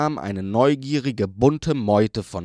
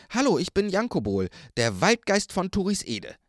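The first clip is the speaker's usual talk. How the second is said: lightly higher, quick forest sprite; a hint of an eager little sprite; forest spirit voice; 7 semitones higher than usual. A narrator's reading.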